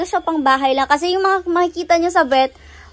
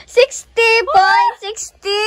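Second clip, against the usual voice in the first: excited; 6 semitones higher, 7 dB louder, slower than usual. Real, not acted. Weighing reveal, excited shout.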